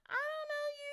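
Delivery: high, loud mock dad brushing her off; the father disowning his daughter, mock voiced; mock dismissive dad. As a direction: toss it off like a cold dad.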